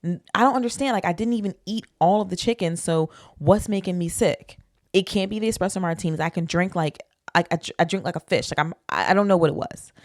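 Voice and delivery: mock-panicked rambling, rising in places; retold panic. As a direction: replay your bewildered panic, stumbling over restarts. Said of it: "panicking 'cause I'm like".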